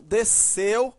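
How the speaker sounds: "desceu" with CEU stressed and rising; des-CEU, firm second syllable; stress on ending. Shown as a demonstration. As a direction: lean on the last syllable of "desceu". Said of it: "está fora do radical".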